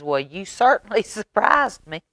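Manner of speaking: amused, chuckling through it; laughing. Acted. Mama laughing at the children, amused. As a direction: laugh as you say it. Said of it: "and laughed".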